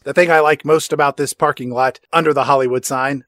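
ordinary delivery

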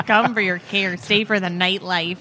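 laughing mock Minnesota accent, lightly done; light playful Minnesotan accent. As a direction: say the slogan with a hint of Minnesotan, through a laugh. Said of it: "Minnesota accent".

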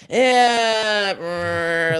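mock tough. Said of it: "I'm in character".

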